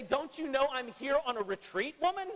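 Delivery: sarcastic pastor mimics an annoyed Jesus brushing the woman off; mock put-out Jesus. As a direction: play a put-upon man guarding his me time. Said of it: "He doesn't say".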